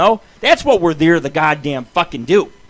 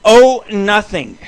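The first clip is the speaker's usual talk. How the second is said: mock innocent; 6 semitones higher, 9 dB louder, much slower than usual. Mock innocent answer to friend.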